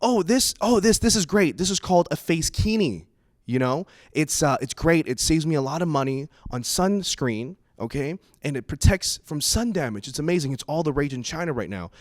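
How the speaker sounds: a hint of an excited mom; cheery mom impression. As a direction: chirp it out like a proud mother showing off. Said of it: "she turns to me and she goes".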